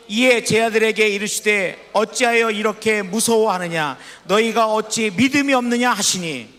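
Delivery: steady, formal reading of the rebuke; scripture reading. Acted. Pastor reading Jesus' rebuke from the Bible, measured. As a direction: read it as written, measured.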